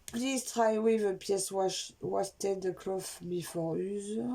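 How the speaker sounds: slow, careful English with a French accent. Real, not acted. Vlogger reading product instructions aloud, slow French-accented English. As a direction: read the English slowly in a thick French accent. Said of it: "Avec mon super accent anglais".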